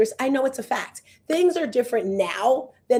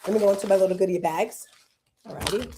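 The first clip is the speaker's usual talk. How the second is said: ordinary delivery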